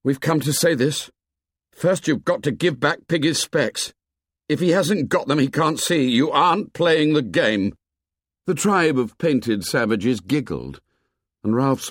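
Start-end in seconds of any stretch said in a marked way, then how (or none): 0.0-7.7 lightly voiced boy, higher, earnest; Ralph pleading. A narrator's reading. Ralph confronts Jack's painted tribe, earnest boy voice. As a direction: plead firmly with the savages.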